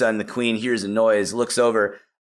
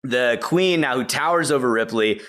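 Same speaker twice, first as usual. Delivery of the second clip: ordinary delivery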